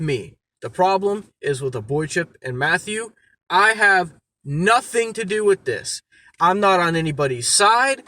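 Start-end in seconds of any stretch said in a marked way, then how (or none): 3.5-8.0 angry. Real, not acted. Angry rant at drama makers.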